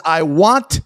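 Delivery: slow, loud, high mocking order; imitating the CEO. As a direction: hammer the CEO's demand out slowly. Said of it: "he says".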